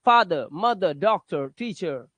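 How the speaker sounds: फादर, मदर, डॉक्टर, टीचर with softened final r; uh ending. Shown as a demonstration. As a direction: end each word lightly on uh. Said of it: "इस तरह से sound निकालते हैं".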